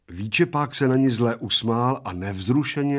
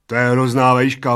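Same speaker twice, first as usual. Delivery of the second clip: loud and higher, stressing the height; emphatic exclamation; 4 semitones higher, 11 dB louder than usual. A narrator's reading.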